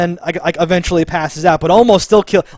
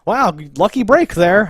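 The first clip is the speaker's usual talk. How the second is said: mock sarcasm; 5 semitones higher, 3 dB louder than usual. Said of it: "Misty should be like".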